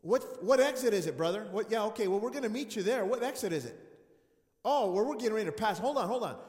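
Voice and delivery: loud, booming phone voice; mock loud pastor. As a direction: boom it into the phone.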